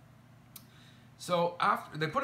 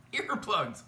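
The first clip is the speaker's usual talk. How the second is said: laughing disbelief; 7 semitones higher than usual. Real, not acted. Laughing disbelief at earplugs offer.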